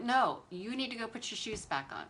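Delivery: firm, lightly acted mom order; a touch of scolding mom. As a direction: lay down the law like a mother. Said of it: "you've made me use my mom voice".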